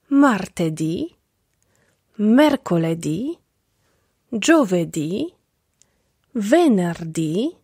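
slow model words, each ending on a stressed rising dì; martedì, mercoledì, giovedì, venerdì said slowly with the stress on the final dì; paced for learners to repeat after each word; stress on the final syllable. Shown as a demonstration. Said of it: "akcent pada na ostatnią sylabę".

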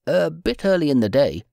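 a hint of a polite apologetic aide; apologetic chief of staff. A narrator's reading. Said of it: "he had apologized".

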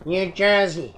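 half-hearted try at an American accent; badly faked American accent; attempted American accent. Shown as a demonstration. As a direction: have an unconvincing go at American. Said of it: "I can't do an American accent".

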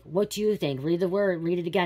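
retold order, pushed out insistently; impatient retelling. Retold husband's impatient order to reread.

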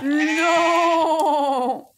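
wicked queen shrieking at her sheep's head in the mirror; horrified scream. A narrator's reading. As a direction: scream it as if seeing your own ruin. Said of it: "hurla-t-elle, horrifiée".

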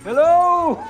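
loud jolly Santa hello; booming greeting. Acted. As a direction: burst in as a hearty Santa.

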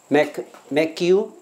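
"make" alone, then joined to "you" as "may-kyoo"; linked words. Shown as a demonstration. Teacher breaking down "make you" for students, linked slowly. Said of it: "要连起来".

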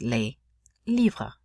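"les livres" with silent S in "les"; no liaison. Shown as a demonstration. Teacher contrasting for students, "les livres" without liaison. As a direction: keep "les" apart from "livres", no Z sound. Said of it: "we would not use a liaison".

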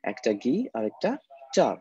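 "গি" and "টা" each said apart; split into syllables. Shown as a demonstration. Teacher splitting guitar into two syllables for students, syllable by syllable. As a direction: break the word into "গি", pause, "টা". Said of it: "এখানে গিটার দুইটা syllable".

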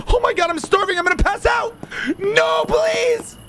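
frantic gamer panic; panicked. Real, not acted. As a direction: beg in real panic as it climbs. Panicking over lost stats.

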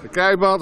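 keibaand with a broad drawn aa; Tilburg dialect. Shown as a demonstration. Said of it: "is Tilburgs".

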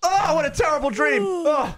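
hammed-up relieved exclamation; waking from nightmare. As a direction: cry out as if jolted from a bad dream.

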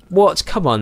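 high, loud one-word outburst; startled disbelief. Real, not acted. Player finds the expected nightstand missing, startled disbelief. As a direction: blurt it out in disbelief.

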